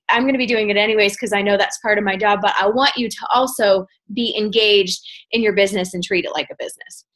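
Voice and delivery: talking breathlessly; winded, short of breath between words. Real, not acted. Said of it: "I'm out of breath".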